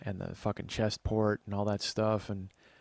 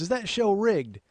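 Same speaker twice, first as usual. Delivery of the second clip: high, louder lady voice; Dottie; 10 semitones higher, 5 dB louder, slower than usual. Retold or imitated. Mother's neighbor repeating her question, high and loud. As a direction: repeat the blunt question, pitched well up. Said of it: "She goes".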